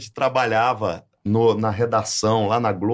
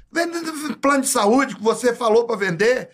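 imitating Helder; 10 semitones higher than usual. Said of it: "aí o Helder contando".

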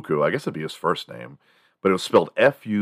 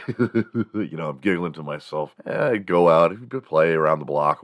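ordinary talk

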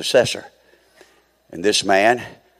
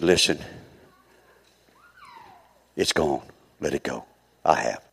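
gentle forgiveness; 2 semitones lower, 5 dB quieter than usual. Retold or imitated. Preacher retelling words to a repentant man, gently forgiving. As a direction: retell it quietly, as words of release.

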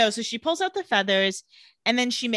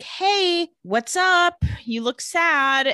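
high, louder, drawn-out imitation of a friend; concerned friend greeting; 7 semitones higher, 4 dB louder, much slower than usual. Friend checking on Elena moping in bed, exaggerated concerned greeting. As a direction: stretch out a high, singsong greeting.

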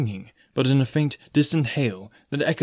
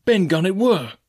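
excited; 8 semitones higher, 5 dB louder than usual. Acted. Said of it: "cried Morgan".

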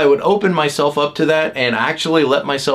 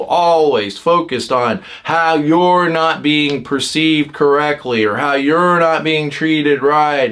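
exasperated others; slower than usual. Retold or imitated. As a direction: drag it out like a tired family member. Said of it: "other people in your life are gonna be like".

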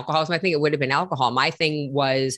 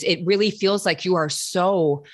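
gentle, caring; 4 semitones higher than usual. Retold or imitated. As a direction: invite her to open up, tenderly. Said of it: "what I would say is".

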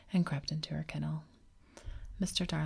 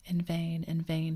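crying out; 4 dB louder, slower than usual. Acted. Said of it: "he cried".

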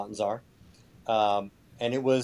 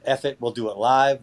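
louder punchy TV-host quote; Bill O'Reilly impression; 5 dB louder than usual. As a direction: belt it like a cable news host. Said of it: "was Bill O'Reilly".

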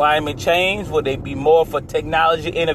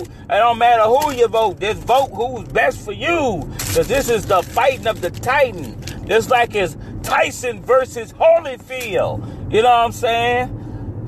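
excited; 5 semitones higher than usual. Real, not acted. Hyping the election like a fight.

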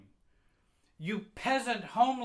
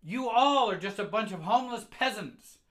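high, very loud tirade building in force; furious scolding mother; 7 semitones higher, 13 dB louder than usual. Acted. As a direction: tear into the child at a shout. Enraged mother scolding her child.

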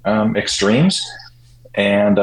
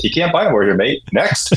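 higher-pitched imitated British brush-off; British accent; 5 semitones higher than usual. British champion dismissing interviewers' question, in a British accent. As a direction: lightly mimic a matter-of-fact British athlete. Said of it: "hear it in a British accent".

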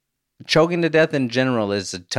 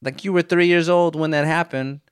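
higher, incredulous outburst; stunned disbelief; 7 semitones higher than usual. Retold or imitated. Dad reacts to son quoting him, stunned. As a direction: blurt it out in shock. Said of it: "And I'm like".

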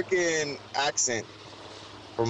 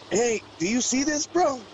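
much higher, excited dad voice; imitating dad; 11 semitones higher than usual. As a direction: squeak it out like an amazed dad. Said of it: "And then Dad's like".

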